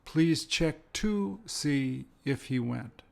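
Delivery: slow, careful model sentence with "to"; slow example sentence. Shown as a demonstration. Teacher modelling the variant slowly for students. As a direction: spell out "to" and "if" slowly. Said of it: "If and whether are interchangeable".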